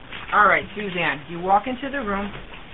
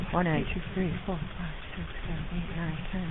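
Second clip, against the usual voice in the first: counting cpr compressions; 10 dB quieter than usual. Shown as a demonstration. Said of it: "gonna continue compressions".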